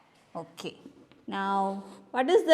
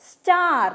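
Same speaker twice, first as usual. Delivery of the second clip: clear, emphatic model word; model word for repeating; 4 semitones higher, 5 dB louder than usual. Shown as a demonstration. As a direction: say it slowly and clearly for the class. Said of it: "Repeat, children".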